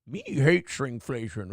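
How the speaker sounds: lightly voiced baby-ish Cookie Monster, slow; little baby Cookie Monster. Co-host mocks the anchor's first take, babyish voice. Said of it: "The first one she did is like a little baby".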